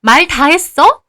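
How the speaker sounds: loud, slow menace; threatening. Retold or imitated. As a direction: challenge her slowly. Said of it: "큰아빠도 덩달아 따지고요".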